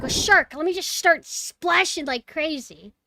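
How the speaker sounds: high, loud mock panic; mock alarm. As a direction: act out a panicked swimmer. Voices swimmer seeing the shark.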